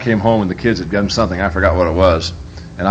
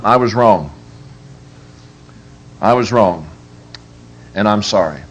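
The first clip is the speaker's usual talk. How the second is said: sincere admission; 2 semitones lower than usual. Shown as a demonstration. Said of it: "need to learn to say".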